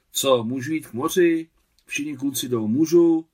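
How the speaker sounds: put-on high, loud boyish begging; lifted voice, rising to an eager plea; humbly pleading boy. A narrator's reading. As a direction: plead like a kid asking permission. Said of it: "bylo tolik pokory a podřízenosti".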